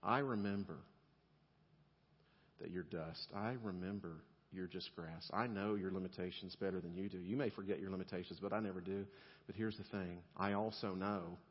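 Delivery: gentle, patient reassurance; tender God voice. Pretend. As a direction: speak as a loving father comforting a weary child. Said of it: "God's answer to you is".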